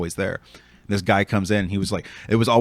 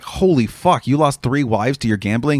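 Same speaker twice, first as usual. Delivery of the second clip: shocked; 3 semitones higher, 3 dB louder than usual. Retold or imitated. Shocked reaction in retold story.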